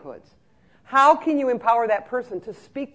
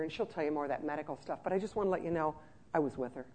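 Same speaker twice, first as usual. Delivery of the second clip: reassuring aide; 4 semitones lower, 6 dB quieter than usual. Retold or imitated. Aide reassures family on phone.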